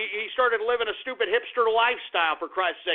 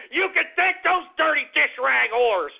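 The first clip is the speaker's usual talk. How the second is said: gloating insult; 4 semitones higher, 3 dB louder than usual. Real, not acted. Insulting listeners between cackles.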